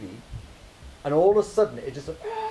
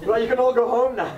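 laughing quip; 8 semitones higher, 8 dB louder than usual. Retold or imitated. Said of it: "And I was like".

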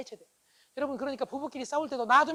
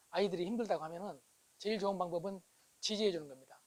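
ordinary talk, nothing marked

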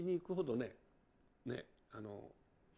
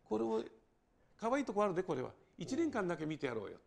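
Hiroshima-dialect turnabout; 4 semitones higher than usual. Shown as a demonstration. Racketeer asking for one more year for the boss, in Hiroshima dialect. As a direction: plead the boss's case in Hiroshima dialect. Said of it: "パッと転調できるんですよ".

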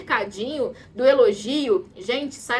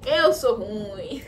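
mock chest-beating; much slower than usual. Que bate no peito.

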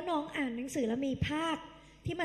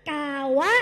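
louder chant of กาวะ; loud call-and-repeat; 7 dB louder, slower than usual. Shown as a demonstration. Teacher leading the class chant, loud. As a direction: punch out กาวะ for repetition. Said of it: "พูดตามพี่ค่ะ".

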